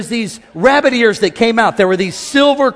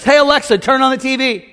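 put-on kid commanding Alexa; 3 semitones higher than usual. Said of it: "Ashton says".

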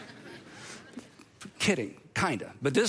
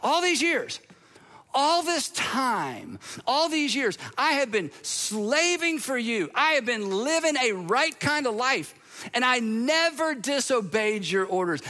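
put-on resentful older brother; 5 semitones higher, slower than usual. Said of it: "the older brother's like".

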